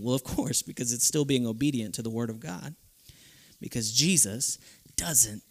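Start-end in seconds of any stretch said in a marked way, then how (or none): 3.6-5.4 whisper. Real, not acted. Preacher whispering a truth to the congregation. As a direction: whisper it, voiceless and close.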